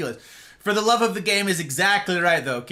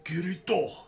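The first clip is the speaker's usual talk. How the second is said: short, softer Kirito in a Japanese accent; cool Japanese accent; 5 dB quieter than usual. Shown as a demonstration. Scolding heckler showing how to say Kirito, Japanese accent. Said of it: "a cool Japanese accent".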